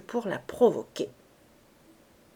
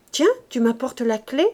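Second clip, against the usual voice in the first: mildly surprised; 2 semitones higher, 4 dB louder than usual. Acted. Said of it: "dit-elle, très surprise".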